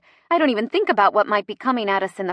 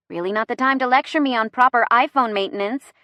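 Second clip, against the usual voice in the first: sighing; 3 semitones higher, 3 dB louder than usual. Acted. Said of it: "I sigh".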